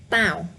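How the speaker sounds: Tao said with strong stress; stronger Tao. Shown as a demonstration. Teacher contrasting the right-hand take, stressing Tao. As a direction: lean hard on Tao. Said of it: "It's stronger".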